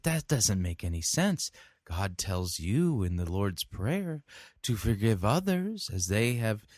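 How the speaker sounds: lightly voiced incredulous pastor; doubting emergent pastor. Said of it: "same thing we're hearing from emergent pastors".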